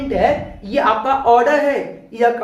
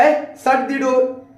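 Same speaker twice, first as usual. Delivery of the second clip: request tone; much slower than usual. Shown as a demonstration. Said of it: "दोनों में tone के ऊपर dependent है".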